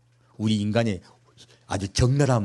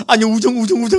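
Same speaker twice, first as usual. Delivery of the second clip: sheepish Peter; 11 semitones higher, 6 dB louder than usual. Retold or imitated. Peter dodging Jesus' question.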